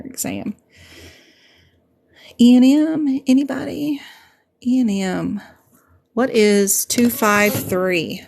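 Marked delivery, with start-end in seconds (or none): 2.4-8.2 raised, higher quiz call to the viewers; teacher calling for answers from the chat. Real, not acted. Quizzing the live chat.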